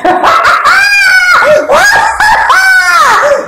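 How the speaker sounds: high, shrieking mocking laugh; mocking cackle. Woman taunting Emmanuel, shrieking mocking laugh. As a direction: cackle in his face.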